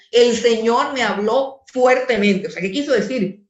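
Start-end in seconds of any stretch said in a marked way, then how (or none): 0.1-2.5 "El Señor me habló fuertemente" a touch louder, firm, with authority; authoritative tone. Shown as a demonstration. Pastor shows the congregation the verse read with authority. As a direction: say it like a command from above. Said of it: "Dios estaba con ciertas emociones fuertes".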